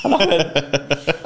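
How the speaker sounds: usual speaking voice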